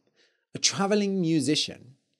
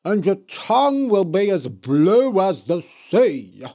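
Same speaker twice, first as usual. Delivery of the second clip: loud cursing witch; 4 semitones higher, 7 dB louder than usual. A narrator's reading. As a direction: cast it like a curse. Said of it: "said the Blue Witch".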